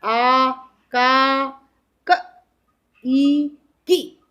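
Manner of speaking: very slow, drawn-out आ का and ई की; slow demo. Shown as a demonstration. Teacher slowly showing matras to students. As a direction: spell out each sound slowly. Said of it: "मात्रा के रूप से क".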